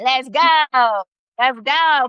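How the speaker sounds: loud, drawn-out hype; excited cheer. Real, not acted. Teacher cheers students' right answers in chat, excited. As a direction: cheer them on with real gusto.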